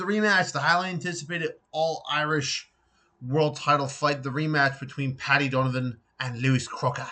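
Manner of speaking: put-on light British accent on the names. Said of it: "I had to say it in a British accent".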